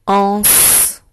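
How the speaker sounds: ANSE held, with a long final s; dictation. Shown as a demonstration. Teacher dictating the second syllable to pupils, dictation voice. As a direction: dictate ANSE as one drawn-out, isolated syllable. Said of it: "Je vais te dicter les syllabes".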